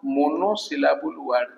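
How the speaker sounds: slow and soft, spelling out monosyllable word; slow dictation. Shown as a demonstration. Teacher dictating the term to students, slow and soft. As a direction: let the term sink in, word by word. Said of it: "ଏଇଟାକୁ କହିବା".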